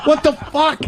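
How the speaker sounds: half-laughing outrage at the doctor; outraged disbelief. Retold or imitated.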